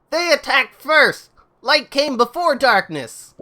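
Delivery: slow, high, loud acted protest; indignant quarrel. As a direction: argue back loudly, stretching the words. Characters quarrel over who started.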